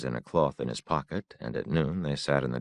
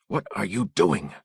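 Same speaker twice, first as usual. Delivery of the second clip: tense, louder repeated demand; sharp; 6 semitones higher, 5 dB louder than usual. A narrator's reading. Father scolding his son who strayed, tense and sharp. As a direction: press him harder the second time.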